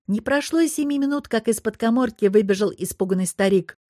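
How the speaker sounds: ordinary delivery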